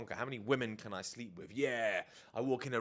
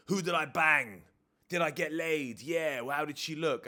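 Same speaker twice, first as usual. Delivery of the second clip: louder, higher mock bro bragging; macho bro; 6 semitones higher, 7 dB louder than usual. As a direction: boast to the lads about a conquest. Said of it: "macho competitive chat".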